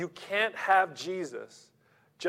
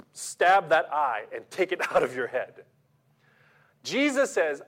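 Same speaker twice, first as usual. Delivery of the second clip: emphatic preaching; 2 semitones higher, 5 dB louder than usual. Acted. Preacher voicing Jesus' demand.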